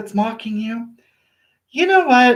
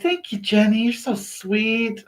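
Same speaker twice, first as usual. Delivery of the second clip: very slow, soft and sweet; drawn-out, hushed gratitude; tender thanks; 2 semitones higher, 4 dB quieter than usual. Real, not acted. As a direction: savour the compliment. Thanking Jenny for compliment.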